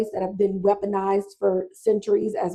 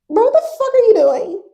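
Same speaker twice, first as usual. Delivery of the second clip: higher and louder, furious hissed challenge; angry confrontation; 12 semitones higher, 6 dB louder than usual. Retold or imitated. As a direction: call him out hard and heated. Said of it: "Oscar grabs him and was like".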